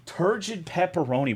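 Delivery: baffled disbelief at the words "Turgid pepperoni"; incredulous rereading. Real, not acted. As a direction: reread it as if you can't believe it. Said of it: "Did I read that right?".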